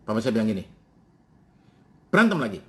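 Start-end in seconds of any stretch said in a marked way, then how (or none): 2.1-2.6 loud, higher scolding father; exasperated dad; angry father. Retold or imitated. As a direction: scold the boy who keeps fighting. Father scolding crying son.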